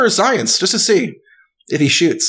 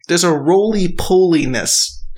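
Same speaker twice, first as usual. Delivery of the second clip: said again slowly; 3 semitones higher, slower than usual. Shown as a demonstration. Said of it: "I'm gonna say it again".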